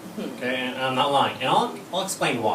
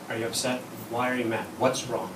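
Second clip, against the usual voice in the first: careful concern; 5 semitones lower, 6 dB quieter than usual. Retold or imitated. Husband gently questions upset wife.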